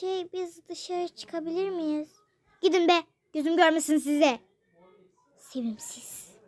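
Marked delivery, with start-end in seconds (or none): 2.6-4.4 gruff dismissal. Acted. Father sends them off. 5.4-6.4 low whispered jab; whispered insult. Acted. Mother whispering an insult about the father.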